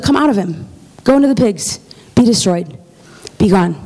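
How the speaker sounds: lightly voiced, matter-of-fact dismissal; Jesus, chill. Jesus casts out demons, chill and unbothered. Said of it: "Jesus was so chill about it".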